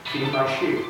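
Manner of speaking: soft, calm quoted reply. Acted. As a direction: say it calmly and softly. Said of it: "before he calmly says".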